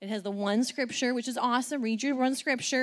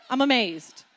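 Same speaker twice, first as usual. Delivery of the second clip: normal talking voice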